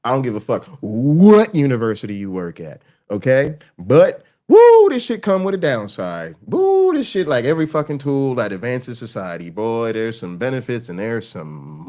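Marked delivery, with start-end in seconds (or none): 4.5-7.2 exclaiming. Real, not acted. Exclaiming warning about social media.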